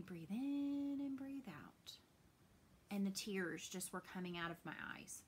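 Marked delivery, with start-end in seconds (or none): 0.0-2.0 put-on slow whisper, child guiding a breath; soft whispered coaching. Daughter calming her crying mom, slow whisper. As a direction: breathe the words out gently. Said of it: "she was laying there telling me".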